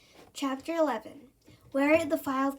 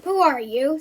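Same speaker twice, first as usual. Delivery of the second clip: loud monster challenge; monster demanding; 7 dB louder than usual. Acted. Monster demanding to know who Jill is. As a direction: bark the question.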